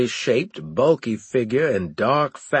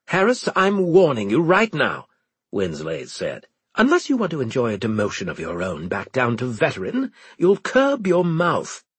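stern warning; 3 semitones higher than usual. Acted. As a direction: warn him coldly. Winslade threatening Harris.

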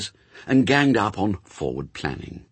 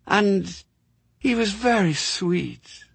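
a wistful, higher, slower fond recollection; wistfully; 11 semitones higher, slower than usual. Acted. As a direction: let it drift off longingly. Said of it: "said Mary Hodges wistfully".

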